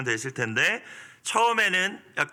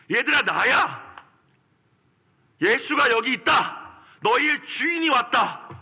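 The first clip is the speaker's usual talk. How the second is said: much higher, louder pleading proclamation; commanding Jesus; 10 semitones higher, 4 dB louder than usual. Retold or imitated. Jesus declaring himself to the frightened disciples, forceful pleading proclamation. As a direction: proclaim it with urgent authority. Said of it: "라고 말씀하시는 거예요".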